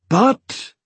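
high, gruff interjection. A narrator's reading. Dwarf husband takes over his wife's explanation, gruff. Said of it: "continued in his gruff manner".

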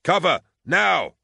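high, loud, stretched-out shout; urgent yell. A narrator's reading. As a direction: yell for everyone to take cover. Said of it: "Gaunt yelled".

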